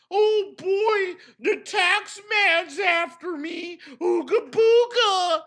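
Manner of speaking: slow, hammed-up silly panic; mock panic. Mocking Phil's fear of the tax man, silly. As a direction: clown a scared man's babble.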